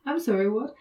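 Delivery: mildly pedantic query with a rising end; lightly acted pedantic judge; passive-aggressive judge. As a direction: pretend you didn't hear, passive-aggressively. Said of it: "Which is passive-aggressive and pedantic".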